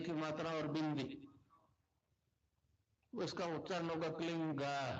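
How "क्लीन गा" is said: क्लीन गा with the G sound at the end; final G sounded. Shown as a demonstration. Guru teaching disciples the mantra, क्लीन गा ending on an audible G. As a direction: let a G ring after the nasal in क्लीन गा. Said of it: "गा की ध्वनि निकलेगी पीछे".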